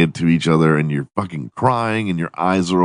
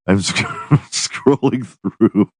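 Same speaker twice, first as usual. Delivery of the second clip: laughing through words; 3 semitones higher, slower than usual. Real, not acted. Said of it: "I'm laughs sc".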